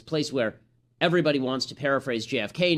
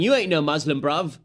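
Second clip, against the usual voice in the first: louder Cockney-ish shout, mimicking; mock shouted British retort; 3 semitones higher, 5 dB louder than usual. Passer-by shouting at attacker in London accent. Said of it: "he was shouting".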